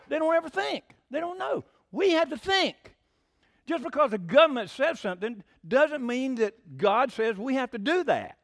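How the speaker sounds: high-pitched, worked-up preaching; excited near-shouting. Real, not acted. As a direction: get carried away, voice riding high. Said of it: "Am I shouting? Sounds like I'm shouting".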